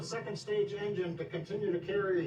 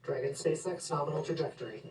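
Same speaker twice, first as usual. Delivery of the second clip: breaking up space radio; 3 semitones lower than usual. Real, not acted. Mission radio callout during launch.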